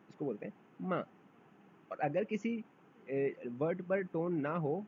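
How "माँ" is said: माँ falling sharply; falling माँ for scold; Chinese fourth tone mà. Shown as a demonstration. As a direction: drop माँ hard. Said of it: "scold मतलब डांटना".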